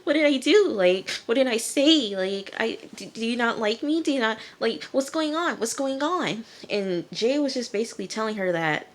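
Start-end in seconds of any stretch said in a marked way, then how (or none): 0.0-6.5 high, imitated distraught questioning; mock freak-out. Nikki being broken up with, mock panicked pleading. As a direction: plead in hammed-up, stammering bewilderment. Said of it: "she's freaking out".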